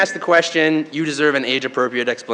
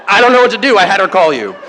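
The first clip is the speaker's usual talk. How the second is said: louder, higher flustered wife; 4 semitones higher, 6 dB louder, faster than usual. Retold or imitated. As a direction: retell her at a loss, raising your voice. Wife at a loss on the phone.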